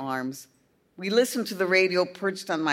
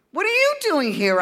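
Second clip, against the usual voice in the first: pitched-up startled question; surprised question; 13 semitones higher, 5 dB louder than usual. A narrator's reading. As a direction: catch him off guard, high. Girl surprised at the door.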